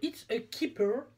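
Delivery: slow, showy English accent; English pronunciation, drawn out. Real, not acted. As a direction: show off an English accent on the product name. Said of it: "Avez-vous vu mon accent?".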